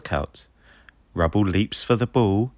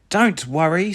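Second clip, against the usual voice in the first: Ryder voice; 9 semitones higher than usual. A narrator's reading. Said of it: "says Ryder".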